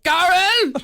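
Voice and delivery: short, high Southern shout in two syllables; Southern drawl. Shown as a demonstration. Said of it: "It's more like".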